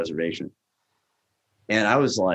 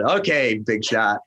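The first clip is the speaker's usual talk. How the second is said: sarcastic chef; slower than usual. Retold or imitated. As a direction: say it like a put-down. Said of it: "not the way I call him chef".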